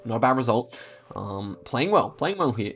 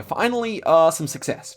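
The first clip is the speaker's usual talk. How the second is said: relieved cry; 5 semitones higher, 5 dB louder than usual. Real, not acted. Relief after a long losing run.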